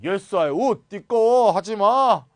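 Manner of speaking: loud, hammed-up grumpy refusal; mock annoyed refusal. Refusing the window request, mock angry and loud. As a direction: bark it like a grumpy neighbor. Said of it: "이렇게 하면 되겠습니다".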